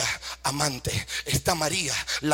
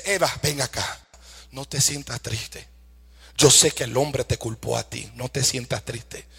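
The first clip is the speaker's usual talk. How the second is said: tender reassurance; 3 semitones lower than usual. Acted. God consoles Eve, as preacher acts.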